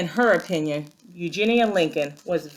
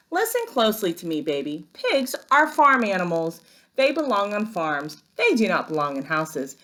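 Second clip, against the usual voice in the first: put-on stern older sister. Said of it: "Eugenia often says".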